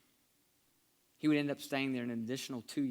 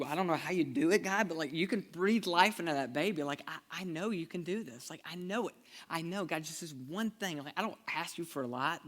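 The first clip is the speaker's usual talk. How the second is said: desperate prayer; 2 semitones higher than usual. Retold or imitated. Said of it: "just praying".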